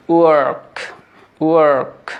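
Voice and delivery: ওয়ার্ক with a clear r before k; American pronunciation. Shown as a demonstration. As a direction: hold the r in ওয়ার্ক. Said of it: "American অ্যাকসেন্টে বলার চেষ্টা".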